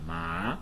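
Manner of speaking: ma rising like a question; questioning rise on ma. Shown as a demonstration. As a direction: Mandarin second tone on ma. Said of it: "question kind of intonation".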